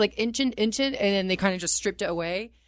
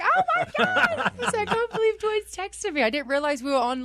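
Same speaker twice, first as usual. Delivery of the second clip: very high-pitched, giddy freak-out; starstruck squeal. Retold or imitated. Telling the host how the star's text stunned her, starstruck squeal. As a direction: squeal it in disbelief through laughter.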